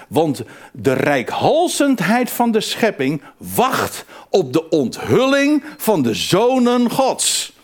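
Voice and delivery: slow, emphatic Bible reading; measured preacher's reading with drawn-out key words; scripture reading. Acted. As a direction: read the verse out slowly, weighting each key word. Reads a Bible verse aloud.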